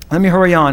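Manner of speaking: "hurry" given the main emphasis; stress on HURRY. Real, not acted. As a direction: lean on the word "hurry". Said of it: "an emphasis on the word hurry".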